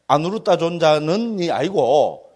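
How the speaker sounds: slow correction. Real, not acted. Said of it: "아누루타 존자가 아닙니다".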